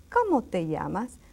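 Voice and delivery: "¿Cómo te llamas?" said in one smooth run with question melody; question intonation. Shown as a demonstration. Teacher repeating for pupils, "¿Cómo te llamas?" with question intonation. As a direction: demonstrate the tune of "¿Cómo te llamas?". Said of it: "You see the intonation".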